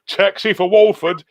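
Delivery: high loud Cockney call across the stage; Cockney shout. Retold or imitated. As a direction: bellow it like a South London cabbie. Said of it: "in his South London Cockney".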